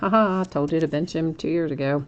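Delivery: speech broken up by put-on laughter. Retelling someone gloating that they said to bench him: imitating someone laughing while talking. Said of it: "he's back laughing, going".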